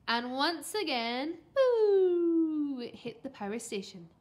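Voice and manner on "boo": loud, long falling hoot; drawn-out descending flight noise; whooshing "boo". A narrator's reading. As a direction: imitate something sailing through the air. Narrator imitates object flying.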